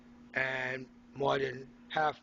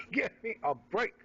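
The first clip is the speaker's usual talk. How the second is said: laughing disbelief; 8 semitones higher than usual. Real, not acted. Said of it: "laughs in disbelief".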